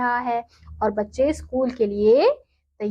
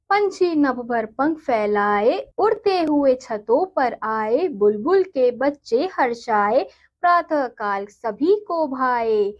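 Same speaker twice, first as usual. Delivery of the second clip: put-on slow, sing-song reading of a children's poem; poem recitation; slower than usual. Teacher reading a poem to her students, slow and sing-song. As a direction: recite it gently and slowly for the class.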